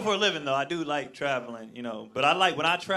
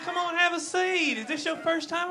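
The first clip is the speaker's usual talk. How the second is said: over-the-top Southern sweetheart; 11 semitones higher than usual. Acted. Restaurant hostess greeting a visitor, gushing Southern accent. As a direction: lay on Southern hospitality thickly. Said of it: "over-the-top Southern hospitality, just sweethearts".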